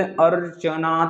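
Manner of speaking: अर्चना said slowly, vowels pulled long; drawn-out archana. Shown as a demonstration. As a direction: stretch अर्चना as if calling. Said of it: "लंबा समय खींच रहा है".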